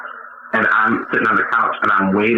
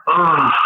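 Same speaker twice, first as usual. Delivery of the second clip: drawn-out, higher mock groan; imitated groan; 6 semitones higher than usual. Comic showing his post-fart groan to get a reaction, mock groan. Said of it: "After I do it, I'll go".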